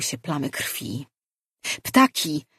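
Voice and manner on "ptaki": loud sudden cry of warning; alarmed shout. A narrator's reading. Someone in the crowd shouts a warning about the birds, loud and alarmed. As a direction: yell out the danger to everyone. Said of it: "zawołał ktoś".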